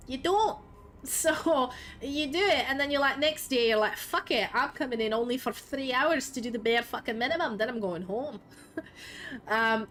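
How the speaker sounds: put-on Scottish accent, casual storytelling. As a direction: retell the lore in a hammed-up Scottish accent. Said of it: "You want me to speak Scottish for a minute?".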